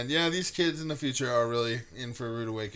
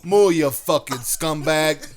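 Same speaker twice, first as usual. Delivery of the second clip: slow mock moo; 8 dB louder, much slower than usual. Cow-calling bit.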